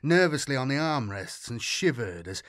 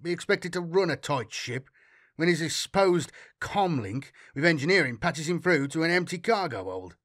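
indignant rant; 2 semitones higher than usual. Acted. Captain ranting indignantly.

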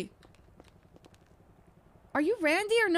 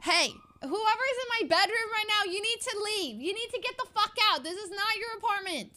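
raised-pitch, indignant order to leave; firm, higher-pitched warning to an intruder; confronting an intruder; 5 semitones higher than usual. Pretend. Resident orders stranger out of her bedroom, indignant.

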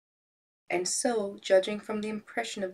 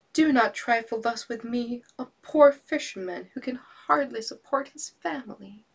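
fisherman cries out; 5 semitones higher, 7 dB louder than usual. Acted. Fisherman crying out to Fortune in despair. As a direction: drag out the plea to Fortune. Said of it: "he cried".

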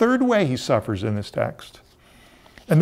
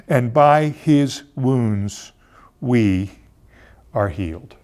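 scripture reading; 2 semitones lower than usual. Acted. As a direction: read it like a sacred text, weighing each line. Reads Isaiah aloud solemnly.

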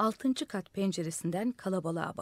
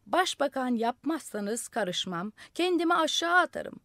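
madman yelling; 6 semitones higher, 4 dB louder than usual. A narrator's reading. Madman threatening the crowd to jump, shouting. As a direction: yell the threat down from the roof. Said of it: "Deli bar bar bağırıyordu".

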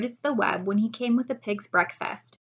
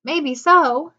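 wife voice; 6 semitones higher, 9 dB louder than usual. Acted.

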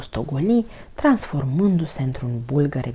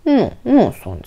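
loud, higher protest; indignant shout; 8 semitones higher, 9 dB louder than usual. A narrator's reading. Toni protests being called a mushroom, indignant shout. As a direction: shout the denial. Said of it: "strigă Toni".

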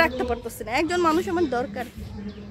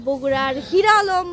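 বগুড়ার হিরো Alam drawn out slowly and much louder, হিরো punched; slow, loud, proud punchline naming হিরো Alam; proud reveal; 6 dB louder, slower than usual. Real, not acted. Vlogger proudly names Bogura's famous hero, slow and loud.

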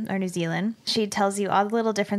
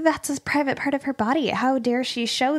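mock outrage; 3 semitones higher than usual. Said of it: "they're like".

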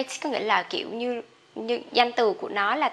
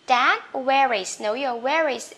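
slow model sentence; slower than usual. Shown as a demonstration. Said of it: "Mấy âm T H lận hơi khó nhỉ?".

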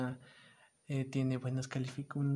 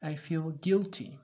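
mock guilt; 2 semitones higher, 4 dB louder, slower than usual. Shown as a demonstration. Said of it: "¿Qué estoy?".

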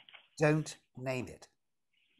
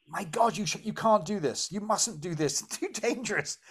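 higher, hammed-up protective warning; mock alarm; 4 semitones higher than usual. Protective mind warns against going beyond its regime, in mock alarm. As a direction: play an overprotective mind lightly panicking. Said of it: "it will always say".

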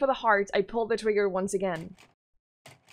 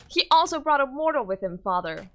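put-on higher little girl voice; 4 semitones higher, 4 dB louder than usual. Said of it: "the girl talks in a higher voice".

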